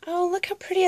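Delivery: delighted squeal. Real, not acted. Vlogger gushes over the pretty envelope, delighted.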